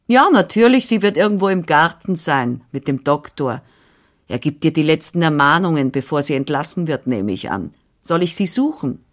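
a lightly voiced bustling older woman; brisk, busy housekeeper voice, only lightly put on; Frau Anna, brisk nurse. Nurse answering the father, lightly voiced and brisk.

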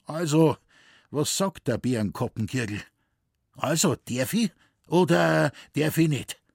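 fear and hope. Acted. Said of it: "mit einem Tone, welcher Furcht und Hoffnung verriet".

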